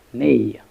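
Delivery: "nay" slowly, with the vowel of cake. Shown as a demonstration. Teacher sounding out tenacious's middle syllable, slow "nay" as in cake. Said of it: "nay like in cake".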